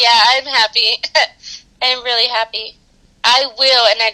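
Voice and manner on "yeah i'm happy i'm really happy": holding back happy tears; shaky sigh. Real, not acted. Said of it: "I'm trying not to cry".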